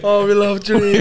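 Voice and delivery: put-on Cameroonian accent. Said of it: "my Cameroon accent".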